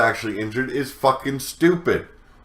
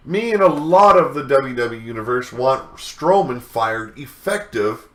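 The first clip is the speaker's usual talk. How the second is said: whiny voice. Retold or imitated. Vlogger reads the angry fan's petition aloud, whiny mock voice. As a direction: read it like a petty, whining fan. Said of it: "Should I do this in a vo-, whiny voice? I really should".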